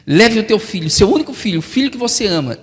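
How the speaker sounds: God pressing Abraham; commanding voice of God. Acted. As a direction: drive each phrase like an order. God's command, preached at force.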